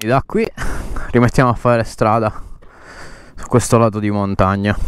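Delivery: loud over the motorbike noise; shouting over engine. Real, not acted.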